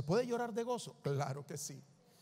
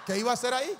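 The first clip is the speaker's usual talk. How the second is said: laughing aside; 3 semitones higher, 6 dB louder, much faster than usual. Real, not acted. Joking about leaving the meeting.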